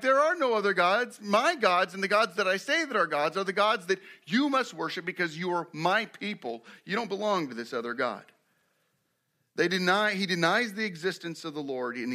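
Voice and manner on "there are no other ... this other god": Pharaoh. Acted. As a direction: lay down the law as a self-made god. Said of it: "Pharaoh's mind is like".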